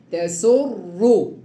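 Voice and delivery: تسر stretched out slowly, final ra thick; very slow heavy ra. Shown as a demonstration. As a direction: hold تسر long, ra heavy. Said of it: "مفخمة أهي".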